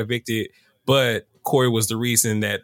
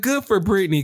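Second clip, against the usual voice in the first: sarcastic; 8 semitones higher than usual. Retold or imitated. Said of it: "I was like".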